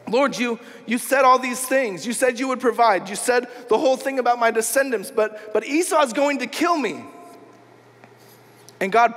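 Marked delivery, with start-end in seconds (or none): 0.1-7.0 mildly panicked protest, pitched up; freaking out. Acted. Jacob reminds God of His promises, mildly panicked. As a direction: argue anxiously, as if reminding someone of promises. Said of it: "Jacob starts freaking out".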